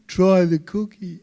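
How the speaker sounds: normal talking voice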